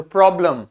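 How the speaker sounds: "प्रॉब्लम" with a short weak vowel before the m; full o, then reduced ending in "प्रॉब्लम"; half-sounded second vowel. Shown as a demonstration. Teacher demonstrating half sounds, "प्रॉब्लम" with weak second vowel. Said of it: "इसको आधा ही बोल रहे हैं".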